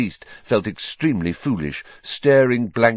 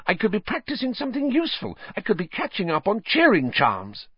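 hissed; 13 semitones higher, faster than usual. Acted. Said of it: "Hermione hissed".

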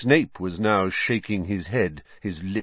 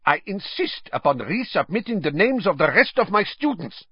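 much higher, cold insistent foreign voice; hard demand; 11 semitones higher than usual. A narrator's reading. Karkaroff demanding a re-draw, ugly and insistent. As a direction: drop the charm and demand. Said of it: "dropped his unctuous tone".

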